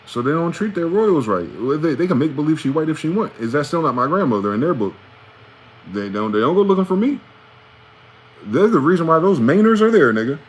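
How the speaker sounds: rising into an indignant tirade; indignant rant. Real, not acted. Ranting to viewers about robbed royal heritage, heated and loud.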